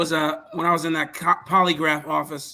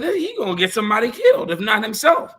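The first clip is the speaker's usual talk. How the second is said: incredulous inner voice; 6 semitones higher, faster than usual. Retold or imitated. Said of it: "I'm like".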